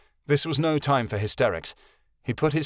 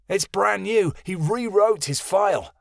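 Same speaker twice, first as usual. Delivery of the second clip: angry snarl; 7 semitones higher than usual. Acted. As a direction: spit it out in outrage. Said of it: "Keanu snarled".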